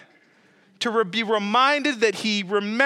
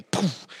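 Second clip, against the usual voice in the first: imitated paintball impact; 3 semitones lower than usual.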